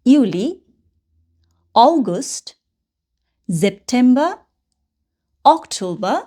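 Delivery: slow teacher's list of German months, a long pause after each; German month names one by one, "November" ending in "-ba"; German month pronunciation. Shown as a demonstration. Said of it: "যেভাবে প্রোনাউন্সিয়েশনটা করলাম না প্রত্যেকটা মাসের".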